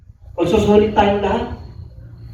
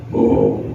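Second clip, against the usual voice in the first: mock baritone boom. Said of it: "bariton yung boses mo".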